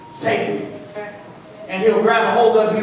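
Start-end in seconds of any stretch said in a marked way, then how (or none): 0.1-0.7 breathless whisper for rescue; whispered plea. Retold or imitated. A sinking believer whispering to Jesus, softly begging. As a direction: whisper it like a last hope.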